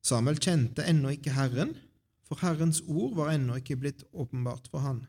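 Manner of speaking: measured Bible storytelling with pauses; scripture reading. A narrator's reading. Reader shares Samuel's story with the congregation, scripture reading. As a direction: read the chapter out clearly to the congregation. Reads a Bible chapter aloud.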